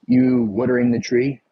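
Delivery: woodering with a short oo; Philly pronunciation. Retold or imitated. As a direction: quote yourself saying woodering the Philly way. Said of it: "I would say".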